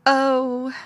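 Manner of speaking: exclaimed. A narrator's reading. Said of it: "he exclaimed".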